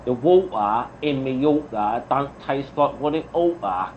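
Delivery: exaggerated London accent demo; broad London accent, laid on for demonstration. Shown as a demonstration. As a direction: show how a Londoner would say it. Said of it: "I can help you with a London one".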